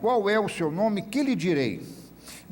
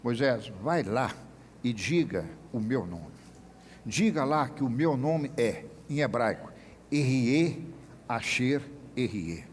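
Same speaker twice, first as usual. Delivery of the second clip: voice of God; 5 semitones lower, 3 dB quieter than usual. Retold or imitated. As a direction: answer Moses gently from above. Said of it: "aí Deus responde a Moisés".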